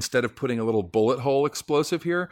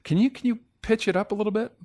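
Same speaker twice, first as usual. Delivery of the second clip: high, quick director's note; director's request; 11 semitones higher, faster than usual. Retold or imitated. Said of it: "the director".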